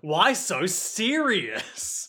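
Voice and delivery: slow, drawn-out villain catchphrase; lightly acted comic-book villain, slow; Joker. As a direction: stretch out a hammy villain's question. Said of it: "the Joker comes up and he's like".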